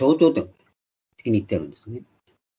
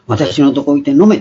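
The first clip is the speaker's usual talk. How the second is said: loud invitation; 3 semitones higher, 6 dB louder than usual. Retold or imitated. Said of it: "イエス様の霊的な大声".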